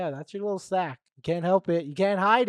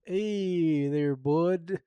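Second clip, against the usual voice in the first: louder, badly faked Canadian accent; 6 dB louder, much slower than usual. Host greets a bud in a badly faked Canadian accent. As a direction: attempt a Canadian greeting, loudly. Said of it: "I can't even do a Canadian".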